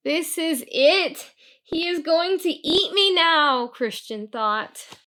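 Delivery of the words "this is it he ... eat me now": frightened. Acted. Christian fears being eaten.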